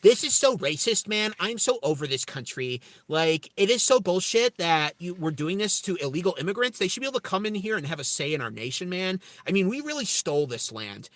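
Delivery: a touch of put-on indignant complaint; mock Democrat complainer. Streamer mimics a Democrat in his chat, mock complaining. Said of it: "and you're saying".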